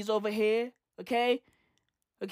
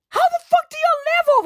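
much higher, faster, squealing in disbelief; squeaky disbelief; 3 dB louder than usual. Real, not acted. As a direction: squeak it out like you can't believe it. Repeats question in shrill disbelief.

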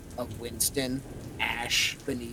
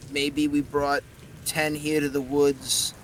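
gruff Cockney skull; 2 semitones higher, 3 dB louder than usual. Acted. Winston's skull answers.

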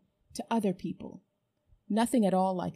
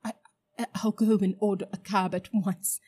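louder, nervous hurry; gasped; 5 dB louder than usual. Acted. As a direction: gasp out the promise. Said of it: "gasped Uncle Andrew".

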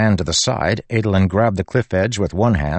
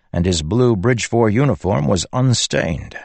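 ordinary delivery, nothing marked

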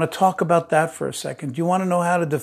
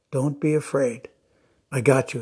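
put-on calm a scared child without raising the voice; 2 semitones lower than usual. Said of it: "It's just a calming voice".

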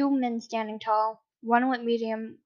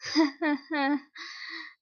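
fake laugh; 4 semitones higher than usual. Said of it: "The blonde faked a laugh".

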